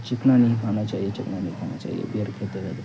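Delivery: put-on mumbling. Describing to the listener how someone talks to himself, imitating quiet muttering. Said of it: "धीरे-धीरे बोल रहा है ... उतनी भी तेज़ नहीं बोल रहा है".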